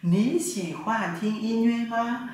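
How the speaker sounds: teacher modeling a Mandarin question slowly. Shown as a demonstration. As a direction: ask it slowly, lifting the voice. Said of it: "Bạn thích nghe nhạc không?".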